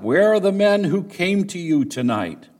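demanding call from a crowd, read aloud. Acted. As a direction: call out to the man indoors. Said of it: "they called to Lot".

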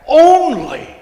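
ONLY thrown out high and very loud; emphatic ONLY. Shown as a demonstration. Preacher adding a word for emphasis, loud high ONLY. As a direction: shout the word "only", drawn out. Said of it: "and then add".

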